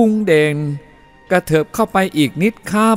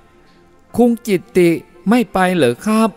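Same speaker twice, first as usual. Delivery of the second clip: put-on Chinese-accented helper; 7 semitones higher, much slower than usual. Helper in the car calls to Jitti, high accented voice. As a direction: call out in a drawn-out Thai-Chinese accent.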